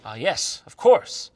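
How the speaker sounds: mock agreement, "course" loud; fake-agree with a sarcastic swell. Mocking the narrator's closet story, sarcastic.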